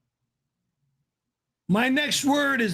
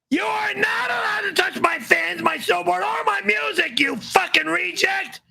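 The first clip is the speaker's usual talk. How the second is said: angry shouting; 6 semitones higher than usual. Real, not acted. Furious rant at chat.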